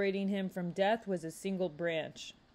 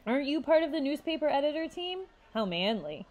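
sarcastic; 7 semitones higher than usual. A narrator's reading. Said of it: "Courtney said sarcastically".

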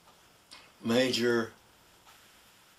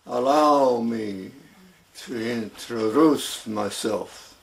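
put-on heavy Russian accent. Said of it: "would say with a heavy Russian accent".

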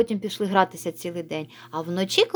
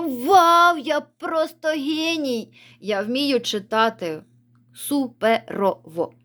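put-on excited child; 4 semitones higher, slower than usual. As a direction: burst out in mock delight at your own genius. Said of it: "а з п'ятого просто". (захоплений вигук дитини, повільно і гордо)

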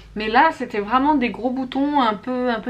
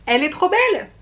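high, louder burst of delight; gushing delight; 7 semitones higher, 4 dB louder than usual. Real, not acted. Vlogger showing off her new palette to viewers, delighted squeal. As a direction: squeal it like you've fallen in love with it.

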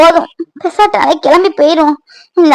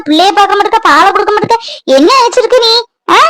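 scolding; 3 semitones higher than usual. Acted. Mother berating daughter for neglecting the baby, raised scold. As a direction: berate her, rising in pitch.

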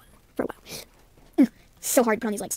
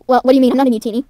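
indignant protest; 7 dB louder, faster than usual. Acted. Character denies being Mutini.

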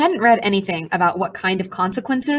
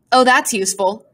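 sarcastic; 3 semitones higher than usual. Acted. Pigeon's sarcastic retort.

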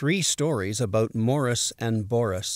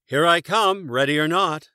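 loud called-out here I come; yell; 5 semitones higher, 7 dB louder than usual. A narrator's reading. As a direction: call across the woods. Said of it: "he yelled".

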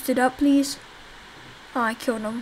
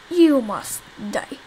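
dragged out slowly, each word weighted; slow menacing; slower than usual. Shown as a demonstration. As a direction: draw it out like a villain's threat. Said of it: "repeats it slowly".

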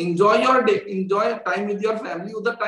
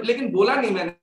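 usual speaking voice

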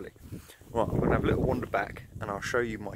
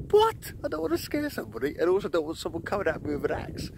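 much higher, startled rush of panic; alarmed panic; 8 semitones higher than usual. Retold or imitated. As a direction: yelp it out like you just heard "axe". Retelling his alarm at the axe threat.

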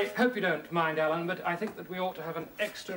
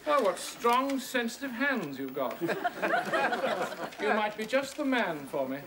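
hammy heroine. Acted. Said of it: "I'll take her part".

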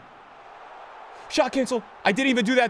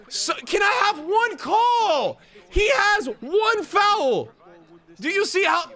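exasperated rant; 4 semitones higher than usual. Real, not acted. Ranting about the referee.

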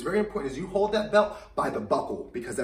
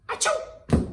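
fake sneeze; 4 dB louder than usual. Shown as a demonstration. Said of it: "can you look down and sneeze".

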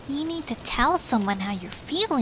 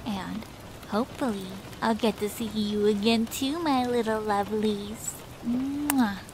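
soft, cute, affectionate coo, a bit quieter; 5 dB quieter than usual. Acted. Treeflower coos goodbye to Norby's long teeth, cute and affectionate. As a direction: coo it sweetly to his teeth, then blow a kiss. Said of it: "She says in a cute and affectionate way".

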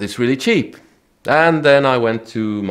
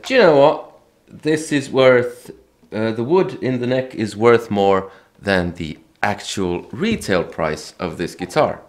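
put-on friend's voice, no accent. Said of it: "I can't do the accent".

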